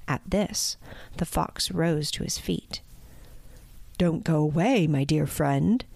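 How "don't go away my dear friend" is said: coaxing sly fox, lightly honeyed. Acted. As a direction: sweet-talk the bird into staying. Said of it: "he said in a honeyed tone".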